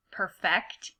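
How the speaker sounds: perfect read as the verb per-FECT; stress on second syllable. Shown as a demonstration. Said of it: "pronouncing them correctly in that sense".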